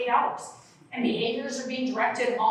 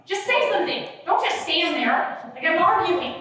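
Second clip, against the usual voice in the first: higher, pleading "just say something"; frustrated plea; 4 semitones higher than usual. Retold or imitated. To a silent partner, exasperated pleading. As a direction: push them to talk, exasperated. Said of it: "How many times you say".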